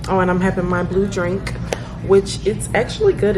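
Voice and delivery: talking with mouth full; words round a bite of food; wolfing down food. Real, not acted. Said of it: "So I'm eating".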